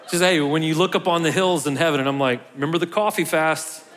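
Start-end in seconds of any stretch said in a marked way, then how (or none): 2.5-3.8 laughing. Real, not acted. Joking about coffee fast.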